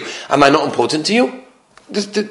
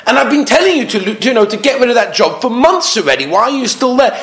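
acted exasperation; 6 semitones higher than usual. Husband scolding wife with fixes.

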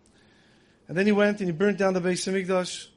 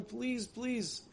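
crying plea; 4 semitones higher, 10 dB quieter than usual. Retold or imitated. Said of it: "He starts crying".

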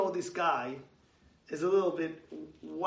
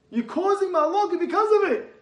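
higher, louder repeat hammering "because"; 11 semitones higher, 6 dB louder than usual. Acted. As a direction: drive it home. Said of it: "repeated louder".

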